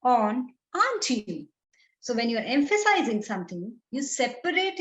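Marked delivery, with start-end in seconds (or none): 0.8-1.5 "aren't you?" set apart by a pause and leaned on; pause, then hit "aren't you?" firmly; emphatic tag question "aren't you?" after a break; stress on aren't you. Shown as a demonstration. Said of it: "Emphasis on".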